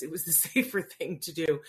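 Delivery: laughs through the words; a chuckle breaks in mid-line; laughing. Real, not acted. Laughing at her own tumble while telling viewers.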